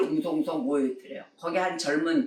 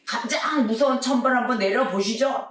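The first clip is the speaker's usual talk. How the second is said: a little higher, taunting God; mock defiant challenge; 6 semitones higher, 3 dB louder than usual. Speaker mocking God before a crowd, mild defiant taunt. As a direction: dare heaven to strike, half-acted. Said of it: "막 이래가면서".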